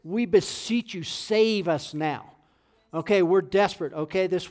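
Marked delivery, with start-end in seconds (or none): 0.0-2.3 slow, emphatic retold plea; crying out. Preacher quotes David begging God for rescue, slowly crying out. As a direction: stretch out the plea with raised force. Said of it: "he's crying out and says".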